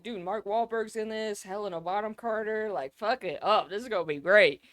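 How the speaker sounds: hyped-up eager voice; pumped to watch; excited. Retold or imitated. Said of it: "I was like".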